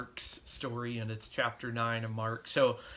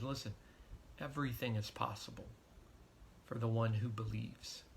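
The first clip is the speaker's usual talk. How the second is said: compassionate; 2 semitones lower, 7 dB quieter than usual. Retold or imitated. Jesus reassuring the desperate dad, softly and compassionately. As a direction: say it gently, looking him in the eye. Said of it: "said it so compassionately".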